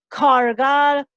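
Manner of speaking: "cargar" with an exploded first C; loud "cargar", leaning hard on the C; accented explosive C. Shown as a demonstration. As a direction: overdo the C of "cargar". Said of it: "acentuaría el sonido de esta letra".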